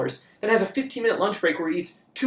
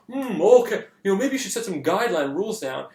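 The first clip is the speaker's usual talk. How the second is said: mock smartass with a higher, louder start; 3 semitones higher, 4 dB louder than usual. Imitating a friend's meta commentary on the monologue, smartass. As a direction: imitate a know-it-all friend needling you. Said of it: "being a smartass".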